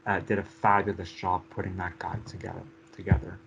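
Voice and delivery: hoarse, raspy voice that is giving out; raspy whisper of a tired voice; losing voice. Real, not acted. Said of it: "Sorry, I'm losing my voice".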